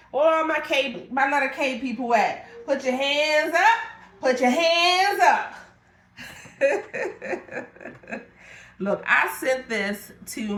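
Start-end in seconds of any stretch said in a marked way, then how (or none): 0.1-3.8 hype call-out. Real, not acted. Hyping up viewers with letter K. 4.2-5.5 high, loud and slow, put your hands up; hype shout. Real, not acted. Seller hyping her live audience, loud party shout. Hyping viewers, louder repeat. 6.2-8.2 high, airy giggle; breathy laugh. Real, not acted. Seller laughing at her own hype call, airy giggle.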